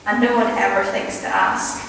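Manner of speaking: measured poem reading with deliberate pauses; poetry recital. Acted. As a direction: recite line by line, letting each phrase settle.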